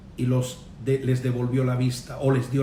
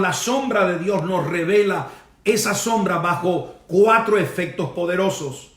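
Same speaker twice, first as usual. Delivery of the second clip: declamatory sermon with punched key words; forceful, insistent pulpit delivery; emphatic preaching; 3 semitones higher than usual. Real, not acted. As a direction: preach it with conviction to a congregation.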